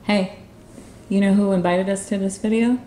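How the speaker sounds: ordinary talk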